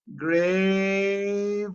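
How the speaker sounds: grave sung with a clear final v; final v sounded. Shown as a demonstration. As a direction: make the v of grave heard at the end. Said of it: "al final va una v".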